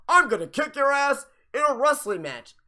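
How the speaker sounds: mock wrestler threat. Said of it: "No, that's a fake Rolex".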